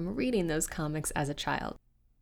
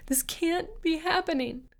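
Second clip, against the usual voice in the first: high, panicked disbelief; frightened cry; 9 semitones higher than usual. Acted. Carol trapped in the elevator, crying out in higher panic. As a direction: cry it out, voice climbing in fear. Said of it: "she cried".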